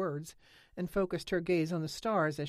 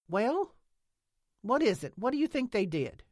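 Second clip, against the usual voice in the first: higher, louder, eager asking; eager pressing question; 7 semitones higher, 6 dB louder than usual. A narrator's reading. Nance presses Lena by the fence, louder and eager. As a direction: push her to spill it.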